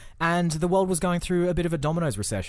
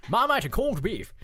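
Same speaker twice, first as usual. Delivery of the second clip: put-on high old-timey English shopkeeper accent; chirpy old-timey English accent, pitched up; 7 semitones higher than usual. Shown as a demonstration. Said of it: "it has to be".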